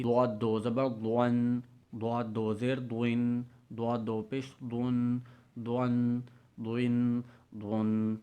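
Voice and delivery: دعاد read thick and heavy, دون nasal; slow heavy Arabic letter drill; heavy Dwad. Shown as a demonstration. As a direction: press دعاد heavy from the tongue side, slowly. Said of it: "سب سے مشکل لفظ ہے دعاد".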